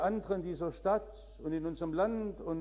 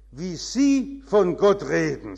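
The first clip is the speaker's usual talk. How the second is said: indignant; 8 dB louder than usual. Retold or imitated. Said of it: "sagte sie empört".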